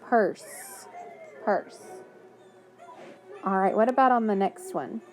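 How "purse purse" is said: "purse" with no final E sound; silent e. Shown as a demonstration. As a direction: repeat without the E. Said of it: "Listen at the end".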